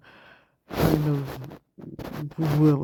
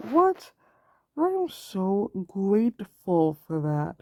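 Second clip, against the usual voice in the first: delighted surprise; 2 semitones higher, slower than usual. Pretend. Artist imagining a helpful tip, replying in happy surprise. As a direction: gasp up in glad surprise, then thank them slowly. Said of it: "And I would be like".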